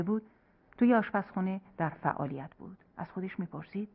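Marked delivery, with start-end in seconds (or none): none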